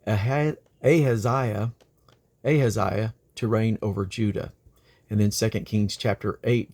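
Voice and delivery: measured Bible reading voice; steady, earnest scripture reading. Acted. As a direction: read the verse like a lesson in church. Reads scripture aloud.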